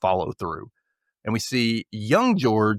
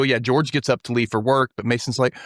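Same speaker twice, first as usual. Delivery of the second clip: ordinary talk, nothing marked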